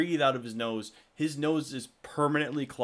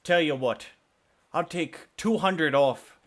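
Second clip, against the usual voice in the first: louder, slow, emphatic offer; bold offer; 3 semitones higher, 5 dB louder, slower than usual. Acted. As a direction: drive the bargain home. Shopkeeper undercutting rival price.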